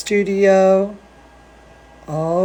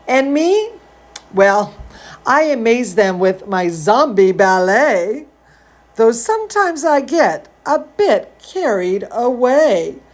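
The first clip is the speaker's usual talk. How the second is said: put-on reading to children. A narrator's reading. Reading Zambolina to kids, lively storybook voice. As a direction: read it like a bedtime story for little ones. Reading picture book aloud.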